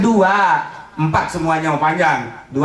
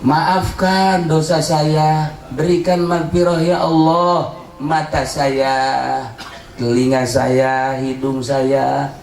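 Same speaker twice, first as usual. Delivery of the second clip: repentant prayer; 3 semitones lower than usual. Acted. Leads a tearful prayer of repentance.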